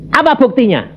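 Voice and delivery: high challenge; challenging demand. Retold or imitated. Preacher challenging God, high and defiant. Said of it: "Saya bilang gitu".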